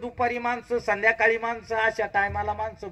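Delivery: high complaint. Acted. Sadhu's complaint about crowds.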